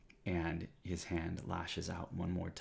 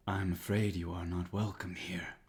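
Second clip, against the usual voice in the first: deep calm voice; 4 dB louder than usual. Acted. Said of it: "a deep voice that says".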